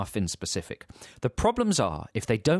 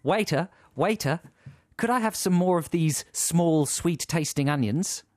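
slow, slightly raised customer's request; lightly acted customer; 5 semitones higher, slower than usual. Customer calling the waiter for more onions, politely drawn out. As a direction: lightly play a diner, words drawn out.

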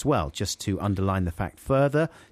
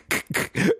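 DJ's laugh. Retold or imitated. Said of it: "He had one of those laughs".

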